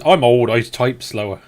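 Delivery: reading aloud in a light West Country accent; slight West Country accent. Real, not acted. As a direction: slip into a mild West Country burr. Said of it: "it was a bit of West Country".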